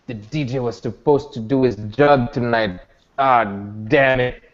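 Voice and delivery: a low, dismayed groan of a voice; lightly voiced Rashid. Rashid watching the ritual go wrong, low dismayed tone. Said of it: "Rashid is like".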